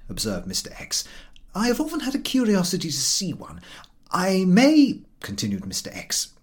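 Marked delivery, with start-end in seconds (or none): 1.5-5.0 a husband in a secretive whisper. A narrator's reading. Husband admitting to his wife he is curious, whispered. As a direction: confess the curiosity under your breath.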